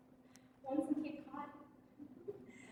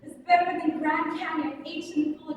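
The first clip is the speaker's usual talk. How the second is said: rapturous wonder; 7 dB louder than usual. Acted. Performer recalling her wonder on the mat, enraptured. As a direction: proclaim the rapture, drawing it out loudly.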